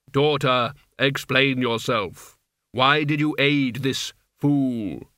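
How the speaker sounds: Death's voice. Acted. Death questions his daughter.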